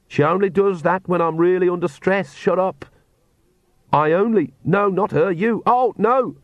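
high-pitched, flustered character voice; rising alarm, arguing with herself; panicking Agnes. A narrator's reading. Agnes panics while hanging.

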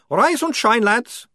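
very high, loud vampire voice. A narrator's reading. Otto asks the sergeant where they go, high vampire voice. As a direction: ask it in the high strange vampire voice.

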